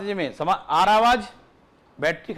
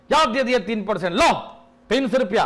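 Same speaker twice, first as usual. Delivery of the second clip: gruff owner; 4 semitones higher, 5 dB louder than usual. Acted. Owner dismissively grants the raise.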